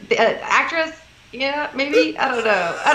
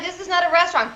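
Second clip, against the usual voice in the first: high-pitched exasperated parent, retold; mock parental scolding; 8 semitones higher than usual. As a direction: put the picky kid in place, playfully. Parent scolding child in retold story.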